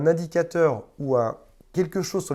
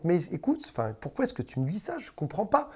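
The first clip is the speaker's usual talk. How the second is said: tight little voice climbing higher at the end; small rising voice; 4 semitones higher, 6 dB quieter than usual. Shown as a demonstration. Victim pleading with the narcissist, voice rising. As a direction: let the voice creep up, unsure and pleading. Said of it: "avec une petite voix qui monte".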